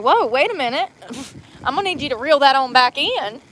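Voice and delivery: 잠깐만, 방금 뭐라고 했냐는 듯 놀라서 되묻기; stunned double take. Retold or imitated. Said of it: "And I'm like".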